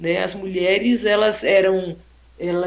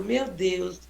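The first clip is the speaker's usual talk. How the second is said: put-on calm old lady; 7 dB quieter than usual. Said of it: "E ela é toda calma".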